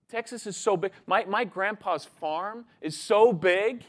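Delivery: put-on excited kid rattling off a singsong brag list; boastful Texan boy. Texan boy outdoing Kiwi boy's car, excited boastful listing. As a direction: pile it on like an overexcited Texan child.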